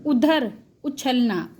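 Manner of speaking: उधर and उछलना said slowly, each syllable spelled out; teacher sounding out उधर, उछलना; slow demo words. Shown as a demonstration. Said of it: "ऊ का sound किस तरह से?".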